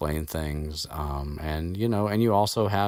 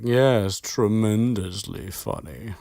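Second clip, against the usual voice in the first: slow, high dry sarcasm; sarcastic Malfoy; 4 semitones higher, 3 dB louder, slower than usual. Retold or imitated. Malfoy mocking Hagrid in front of the class, slow sarcasm. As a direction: stretch out tremendously with scorn.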